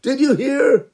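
gossiping villagers. Acted. People gossip about Noach.

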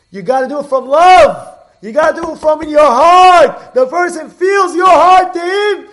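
high, shouted, fervent sermon; preaching at full force. Acted. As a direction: drive the moral home from the heart. Preaching the lesson's moral.

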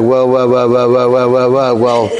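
rapid mock stammer on one word; flustered babble. Man shocked by her boils, flustered babbling. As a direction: get stuck repeating it in an even run.

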